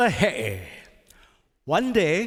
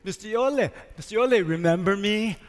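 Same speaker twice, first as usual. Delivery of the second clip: octopus calling out. Acted. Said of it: "He'e calls out to him".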